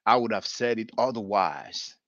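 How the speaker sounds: imitating Farrakhan. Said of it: "He said".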